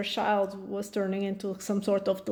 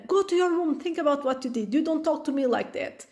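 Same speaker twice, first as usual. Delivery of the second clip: higher, sharp imitated parent sending a child away; stern order; 4 semitones higher, faster than usual. Parent sending a rude child to room, mock-stern order. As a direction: bark the punishment, half-mock.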